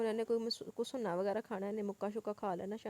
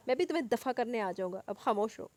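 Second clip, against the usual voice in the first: irritated; 5 dB louder than usual. Acted. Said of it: "वो चिढ़कर बोला".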